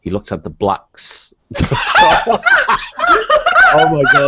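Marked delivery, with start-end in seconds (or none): 1.5-4.3 loud burst of laughter; laughing. Real, not acted. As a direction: crack up loudly. Laughing at misread word.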